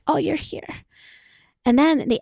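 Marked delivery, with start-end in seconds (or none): 0.1-0.8 higher, softer, gentle "Oh, you're here"; honoring welcome. Shown as a demonstration. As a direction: greet the sadness like a dear guest. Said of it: "Honoring is like".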